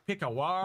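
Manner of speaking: "Pick a word" high, with a long woe-like ending; low turned to woe. Pretend. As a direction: stretch the last sound of "Pick a word" up high. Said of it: "change it from low to woe".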